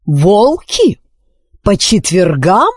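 a cold, slow repeat; icy anger. Acted. Queen repeating her daughter's words in icy anger. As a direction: repeat each word with frozen fury. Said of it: "с ледяным гневом в голосе повторила королева Психора".

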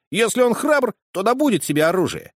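put-on high, loud voice of a teasing boy; cheeky boy. Boy Fritz insists.

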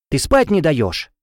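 irritated scolding. Acted. Roommate kept awake scolding her, irritated. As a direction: grumble it out, sleepy and cross.

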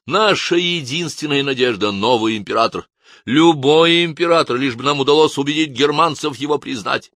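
high, loud rallying shout. Acted. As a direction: whip up the crowd from the tabletop. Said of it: "и кричал".

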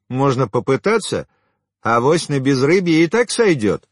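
high, pressing woman's tirade; scornful telling-off. A narrator's reading. Woman berates and mocks suitor.

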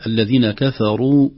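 الذين كفروا with a light, thin كاف; careful tajweed reading. Shown as a demonstration. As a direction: kafaroo with the كاف kept thin and the راء full. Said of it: "ستخرج كفروا".

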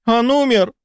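very high, frightened "Он умер!"; alarmed cry. A narrator's reading. Sister fearing the baron died, alarmed high cry. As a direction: gasp it out in sudden horror. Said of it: "воскликнула одна из сестёр".

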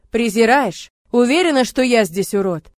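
loud, bitter shout; angry retort. Acted. Murat shouting back at Lora, bitter. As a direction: throw it back at her.

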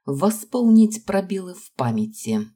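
cold. A narrator's reading. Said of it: "с какой холодностью прозвучали мои слова".

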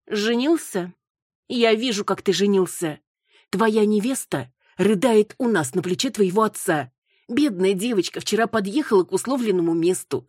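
a touch of tearful scolding. A narrator's reading. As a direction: tell him off, almost crying. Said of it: "отчитывала Руслана ... чуть не плача".

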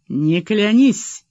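slow, firm and clipped off short; curt, slow refusal; curt cut-off. A narrator's reading. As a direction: shut him down with two slow words. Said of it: "отрезал Вадим".

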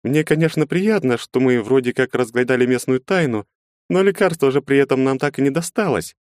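lightly voiced worried heroine; young woman Shakar. Female character voiced by narrator.

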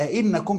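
"أئنكم" as a-'innakum, two glottal onsets; questioning hamza added. Shown as a demonstration. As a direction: put a separate a before 'in in "أئنكم". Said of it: "تبقى الهمزة للإنكار". ("أئنكم" بهمزتين للإنكار)

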